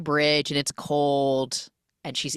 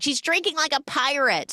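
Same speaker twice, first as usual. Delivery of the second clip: high mocking mom with a Serbian accent; 10 semitones higher than usual. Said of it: "Serbian accent".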